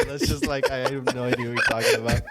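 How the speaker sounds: talking through laughter, quick; laughing. Real, not acted. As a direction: laugh out the confusion. Laughs while admitting confusion.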